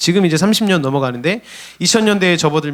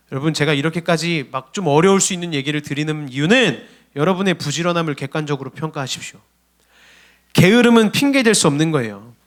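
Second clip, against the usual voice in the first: normal talking voice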